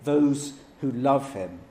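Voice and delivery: "those" leaned on, slow and deliberate; slow down and press on "those"; stress on those. Shown as a demonstration. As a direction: dwell on "those", each word weighed. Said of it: "he's emphasizing here".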